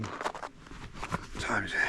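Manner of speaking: slow hushed whisper. Real, not acted. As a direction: whisper to himself slowly. Asks the time to himself.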